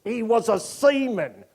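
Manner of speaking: put-on high, pirate-ish Bristol accent; a lightly done Bristol pirate accent from the films; a hint of a Bristol seaman accent; thick Bristol accent. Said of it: "always spoken with a thick Bristol accent".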